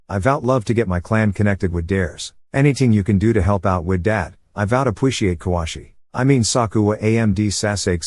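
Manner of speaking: put-on lightly slurred lisping drunk; drunken lisp. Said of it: "lisping badly jokingly said".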